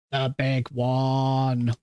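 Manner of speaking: slow, drawn-out, ominous announcer for the big one; dramatic movie-trailer voice. Acted. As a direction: build it up like a trailer voiceover, very slowly. Hyping up the big speedrun.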